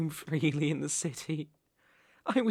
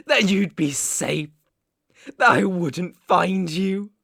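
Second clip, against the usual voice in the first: raised, accusing voice; incredulous anger; 3 semitones higher, 5 dB louder than usual. Acted. Captor mocks rabbit's escape across the world, incredulous anger. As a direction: throw the questions at them.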